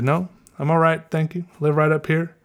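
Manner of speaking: politely decline, slipping into Southern; thickened Southern accent. Retold or imitated. Runner turns down the ladies' ride, retold in a Southern accent. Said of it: "mine started getting so thick".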